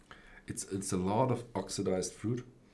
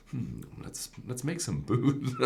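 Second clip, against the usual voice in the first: scheming doctor voice; 4 semitones higher than usual. Retold or imitated. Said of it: "doctors in the army that were like".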